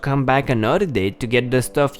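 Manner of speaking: put-on old lady voice. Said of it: "my old lady voice is bad".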